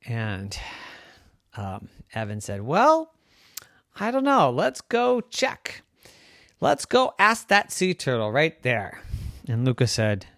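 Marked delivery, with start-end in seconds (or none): 2.6-9.0 put-on high kid voice, dropping to a whisper; confident kid. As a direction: plot it like a little schemer. Evan proposes asking turtle.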